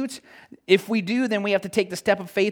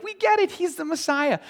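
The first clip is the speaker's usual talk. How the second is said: much higher, louder eager cry; hammed-up excited crowd; 13 semitones higher, 4 dB louder than usual. Preacher acting followers shouting their discovery, excited. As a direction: cheer it like a thrilled fan.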